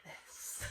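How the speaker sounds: worn-out groan; a long tired sigh; exhausted sigh. Real, not acted. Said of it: "I can do nothing except for this".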